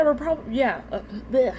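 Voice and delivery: tongue tripping over retainers; stumbling, mouth full of retainers; talking with retainers in. Real, not acted. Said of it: "I have my retainers in".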